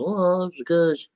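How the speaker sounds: a hint of a smug conservative; mock self-important conservative. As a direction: lightly parody the excuse-maker. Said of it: "I'm not saying".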